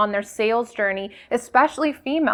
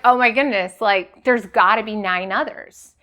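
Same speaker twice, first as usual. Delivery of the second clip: mock excited. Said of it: "would you get excited?".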